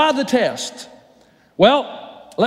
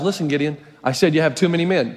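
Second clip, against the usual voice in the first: lower, patient voice of God; 6 semitones lower, faster than usual. Acted. God correcting Gideon in a lower voice. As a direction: say it as God firmly repeating. God repeats his order.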